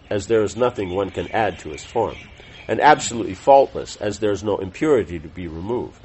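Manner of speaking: measured reading of a religious text; formal read-aloud. Real, not acted. Teacher reading scripture summary to class, formal read-aloud. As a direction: read it out clearly, phrase by phrase.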